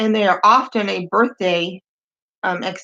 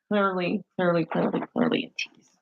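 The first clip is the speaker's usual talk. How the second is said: whispered aside; 5 semitones lower, 8 dB quieter, faster than usual. Shown as a demonstration. Telling viewers the guy is a tease, whispered. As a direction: repeat it in a soft, conspiratorial whisper. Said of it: "So the guy's clearly a tease".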